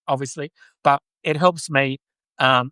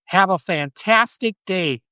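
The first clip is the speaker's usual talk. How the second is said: mock American accent, drawn out slowly and higher; 4 semitones higher, slower than usual. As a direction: put on a cheery over-the-top American accent. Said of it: "that's my American accent".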